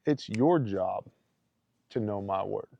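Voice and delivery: measured correction, stressing "your job"; God's firm reminder. Retold or imitated. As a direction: lean on "your", then settle down quietly. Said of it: "The father was like".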